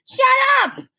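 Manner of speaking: high, loud furious scream. A narrator's reading. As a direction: scream it at them. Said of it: "screamed Jeff".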